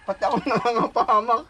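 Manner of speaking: lightly voiced neighbor scolding the couple, laughing at the end; mock scolding neighbor. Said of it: "duro-duro".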